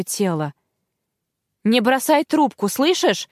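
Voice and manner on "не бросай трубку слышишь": raised, urgent call; urgent plea. Acted. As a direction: keep her on the line. Agent urging on phone.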